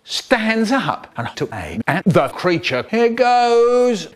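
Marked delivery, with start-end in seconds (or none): 2.9-4.1 tense. Acted. Taking aim, tense.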